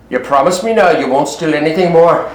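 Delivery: low-pitched, collected reply; cool and calm. Acted. Robin to the repentant thieves, cool and calm. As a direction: keep it composed and low. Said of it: "wasn't he all cool and calm and collected".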